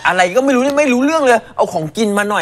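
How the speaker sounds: dog's inner voice. Pretend. Voicing the dog's thoughts.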